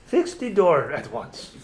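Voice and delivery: put-on slow commanding Russian accent; a stern Russian demand, slowly; mock Russian accent. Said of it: "Russian accent".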